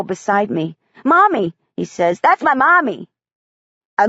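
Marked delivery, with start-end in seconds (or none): 1.0-1.5 put-on little boy. Boy sees his mother's name. 2.2-3.1 put-on little boy. Boy sees his mother's name.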